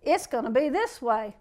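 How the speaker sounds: loud, emphatic refusal, slowing to a firm declaration; defiant, punched-out comeback; coming right back. Acted. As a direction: shut it down forcefully, then declare it slowly. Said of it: "you come right back at them and say".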